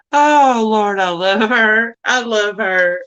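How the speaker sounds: laughing hard through the words, drawn out; cracking up. Real, not acted. Host tickled by her friend's remark, helpless laughter. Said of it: "That was so funny".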